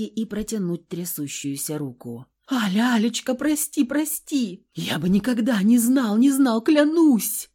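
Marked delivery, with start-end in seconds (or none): 2.5-7.5 high, whining like a beaten dog; whimpering plea. A narrator's reading. Husband whimpering to his wife for forgiveness. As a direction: whine out the apology, desperate. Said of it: "Заскулил он побитой собакой".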